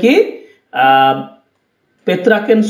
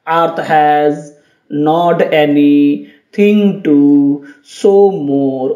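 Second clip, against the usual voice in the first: "earth has not anything to show more" in low, separated two-syllable groups; low, measured "earth has not anything to show more", split into metrical feet; two syllables at a time; 6 semitones lower, much slower than usual. Shown as a demonstration. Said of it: "দেখো দুটো করে syllable নিলাম".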